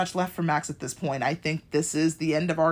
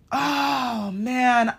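high, drawn-out whimper of sympathy; aching, high-pitched "aww" reaction; sympathetic wail; 6 semitones higher, 4 dB louder than usual. Retold or imitated. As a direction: let it out like a heartbroken coo, voice pitched up. Reacting to Will turning away crying.

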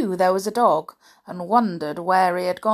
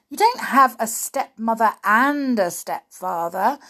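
scornful; 2 semitones higher, 4 dB louder than usual. Acted. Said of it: "said Sooty scornfully".

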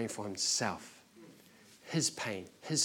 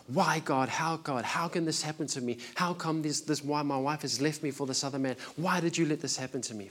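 a mild, higher mock cry of why, God; retold yelling at God; 4 semitones higher than usual. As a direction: retell a man's anguished yell to God without real volume. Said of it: "just yelling out to God".

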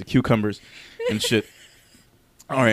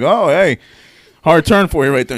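mock flirty greeting; 5 semitones higher, 10 dB louder than usual. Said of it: "me had to be like".

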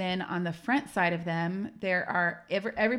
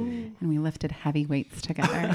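sultry phone-line voice; 3 dB louder than usual. Pretend. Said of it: "Use your one nine hundred voice".

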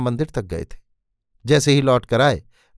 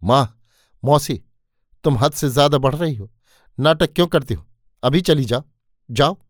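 a touch of heated anger. Acted. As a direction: tell them off, lightly raised. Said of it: "गर्म होकर बोला था".

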